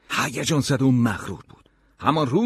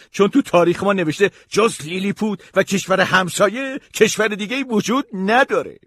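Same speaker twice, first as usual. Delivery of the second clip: very high, loud little-courtier voice; sorrowful Lilliputian secretary; 9 semitones higher, 6 dB louder than usual. Acted. Secretary begs the giant for help, high pleading voice. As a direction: plead in a high, put-on tiny person's voice. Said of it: "منشی مخصوص با اندوه کف دستم نشست".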